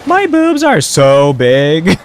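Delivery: slow, loud, high, breaking voice; voice cracking. Acted. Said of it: "Sorry, my voice cracked".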